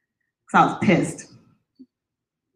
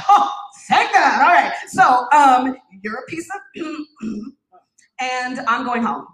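bold relief; 4 semitones higher than usual. Retold or imitated. To the ex, high bold mock farewell. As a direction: toss it off with new boldness.

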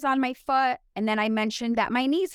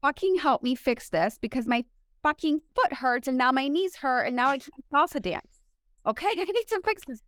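mock plea climbing in pitch; retold exasperated plea; 3 semitones higher than usual. Hurting patient begs doctor to fix her foot, mock exasperated plea. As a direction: re-enact begging in frustration, ending in a laugh. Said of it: "you're a little vulnerable".

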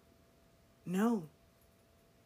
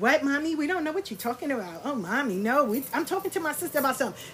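higher, fast, playing-dumb voice; mock innocent coworkers; 5 semitones higher, faster than usual. Mimicking coworkers denying the gossip, higher and fast. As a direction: rattle it off higher like caught gossips.

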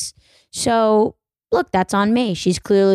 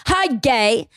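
higher-pitched, harshly thrown "hi"; mock harsh greeting; 4 semitones higher than usual. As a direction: shout it like a slur, jokingly. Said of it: "harshly in their tone or something".

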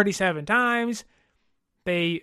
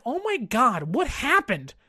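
mock panicking fan; 3 semitones higher than usual. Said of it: "it's like".

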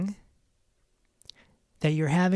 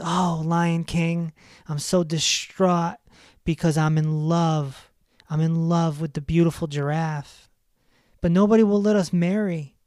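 mildly distraught; 4 dB louder than usual. Acted. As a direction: plead with the king, lightly hammed-up. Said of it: "the monkey was sad".

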